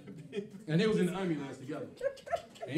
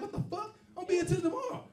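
mock exasperation; 14 semitones higher than usual. Told to keep waiting for pay.

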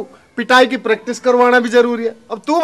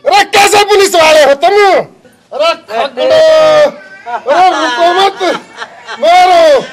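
raised-voice berating of subordinates; exasperated commanding shout; 2 semitones higher than usual. Acted. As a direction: urge them on, shouting in frustration. Officer berates men, urging beating on.

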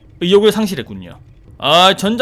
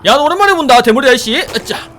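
ordinary talk

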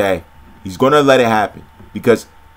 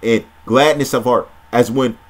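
measured, solemn Bible reading; scripture reading. Acted. Preacher reading scripture to viewers, measured and solemn. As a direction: read the prophecy steadily, like from a pulpit.

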